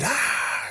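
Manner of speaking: very high, thin-volume imitation scream; mock scream. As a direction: squeal out a held-back scream. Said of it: "Lewis is screaming".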